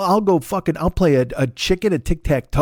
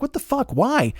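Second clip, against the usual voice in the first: bird's outrage; 9 semitones higher than usual. Pretend. Bird voiced protesting.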